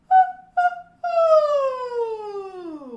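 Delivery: very high, very loud hoo calls. Shown as a demonstration. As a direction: shoot hoos up from the back. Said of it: "Dig deep into the lower back".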